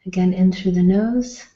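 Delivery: measured instructions with long pauses for breathing; guided meditation. Real, not acted. Meditation leader guiding guests to breathe in and out, calm and unhurried. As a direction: lead the breath calmly, leaving space between phrases.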